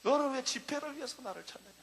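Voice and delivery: low, hushed voice of God; a hushed, searching divine rebuke; voice of the Lord. Retold or imitated. The Lord quietly questions the preacher, low and hushed. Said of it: "주님이 나에게 말씀했어요".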